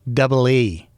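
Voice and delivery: W said as "double E"; mimicked mispronunciation. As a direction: imitate locals turning W into "double E". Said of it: "can't pronounce the letter W".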